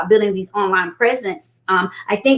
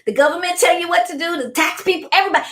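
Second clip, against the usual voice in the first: much higher, giddy through tears of laughter; laughing disbelief; 7 semitones higher than usual. Retold or imitated. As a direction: squeal it like you can't believe him. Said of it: "I was like".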